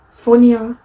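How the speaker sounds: "funnier" in a Northern English accent. Shown as a demonstration. Vlogger correcting herself to how the North says it, "funnier" in a Northern accent. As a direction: say "funnier" as they would in the North of England. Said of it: "as you might say in the North".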